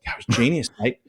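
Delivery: half-hearted mock Australian; rubbish Australian accent. Demonstrating the friend's praise, rubbish Australian accent. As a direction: badly imitate an Australian friend. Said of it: "do a really rubbish Australian accent".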